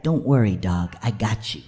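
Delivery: low, laid-back buddy voice; cool talking body part. Acted. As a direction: reassure like a cool pal, dropping low. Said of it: "my asshole was like".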